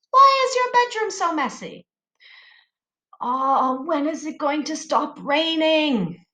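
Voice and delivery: high, rising asking voice. Shown as a demonstration. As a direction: ask it like a nosy parent. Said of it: "Do you know what a question mark looks like?".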